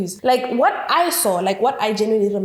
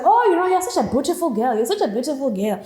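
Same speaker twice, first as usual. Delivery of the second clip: imitated flirty man, opening high then easing down; flirtatious; 4 semitones higher than usual. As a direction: lay on mock flattery. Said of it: "he was coming off as very flirtatious".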